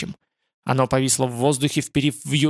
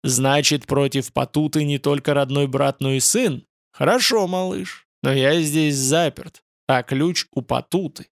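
roaring demon voice. Acted. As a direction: roar it like a god. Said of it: "голос проревел". (ревущий голос божества)

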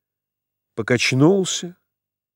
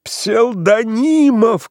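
Псевдонимов cried high, loud and slow; desperate cry; 9 semitones higher, 5 dB louder, much slower than usual. A narrator's reading. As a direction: wail Псевдонимов in despair. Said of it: "кричал Иван Ильич".

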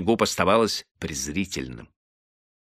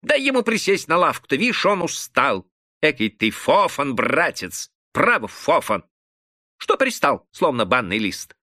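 annoyed; 6 semitones higher than usual. A narrator's reading. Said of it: "с досадой заговорил Моргач".

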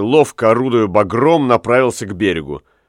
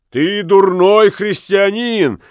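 angry shout; 7 semitones higher than usual. A narrator's reading. Lamme shouts at the bargeman who mocked his fat. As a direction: cry out offended. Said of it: "крикнул он".

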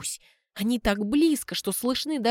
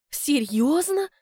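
higher surprised question; sincere surprise; 6 semitones higher, slower than usual. Acted. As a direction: ask in real surprise. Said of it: "удивляюсь искренне".

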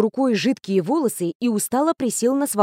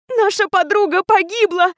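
high, louder anguished wail; 10 semitones higher, 4 dB louder than usual. A narrator's reading. Alma wailing at the teacher over her friend, high wail. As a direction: cry it out in grief. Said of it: "взвыла Альма".

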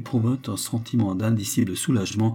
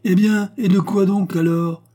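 heated exclamation; 9 semitones higher, 6 dB louder than usual. A narrator's reading. Concierge's heated retort.

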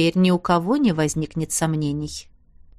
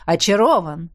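calling out; 3 semitones lower than usual. A narrator's reading. Director calls back while hurrying to friends, called out. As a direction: call it out while walking away. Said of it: "уже на ходу выкрикивая".

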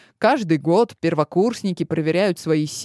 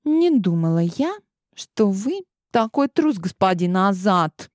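contemptuous; 3 semitones higher than usual. Acted. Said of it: "презрительно поджал губы Клео".

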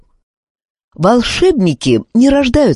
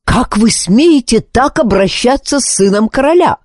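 anger; 8 semitones higher than usual. Acted. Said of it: "в гневе обернулся командор Энканцо".

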